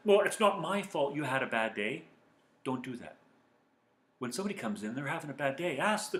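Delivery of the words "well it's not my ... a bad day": defensive snap. Retold or imitated. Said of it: "You're saying things like".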